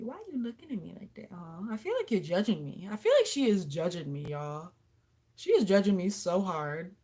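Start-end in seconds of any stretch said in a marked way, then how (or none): none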